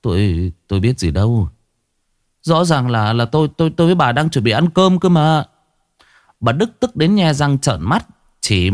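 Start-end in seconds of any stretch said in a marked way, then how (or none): 0.0-5.4 whimpering. Acted. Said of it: "ông Đức mếu máo".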